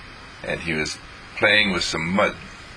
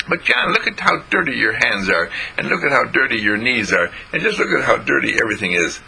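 put-on little girl scolding; 4 semitones higher than usual. Jean scolds brother.

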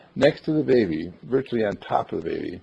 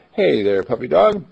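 raised, quick friendly call to the stray dog; calling out loud to a dog; 3 semitones higher than usual. Retold or imitated. Charlie calling out to a Doberman, lightly raised voice. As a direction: call out brightly and fast to a puppy. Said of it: "I spoke right out loud to him".

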